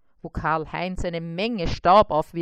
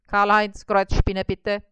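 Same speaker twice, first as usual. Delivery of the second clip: calling out; 2 semitones higher, 6 dB louder than usual. Acted. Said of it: "rief eine Zahnarzthelferin".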